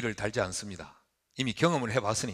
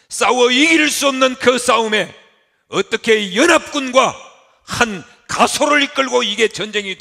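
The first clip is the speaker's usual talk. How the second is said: 높고 크게 외치는 강단 설교; 숨 고르며 마디마디 힘껏 외쳐라; 9 semitones higher, 14 dB louder than usual. Acted. 아브라함의 생각을 외치며 설교. (열변을 토하는 설교)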